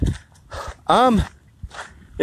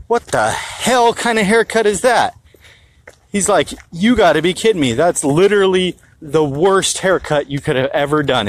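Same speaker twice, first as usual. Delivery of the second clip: laying into him; 2 semitones higher than usual. Retold or imitated. Rude customer mocks cashier's haircut, mock sneer. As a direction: sneer at the haircut, lightly imitated. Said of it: "lays into the dude".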